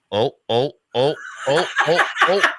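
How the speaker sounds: rising laughing oh oh oh as the bike tips; dad's oh-oh-oh as the bike falls over; mock panicked dad.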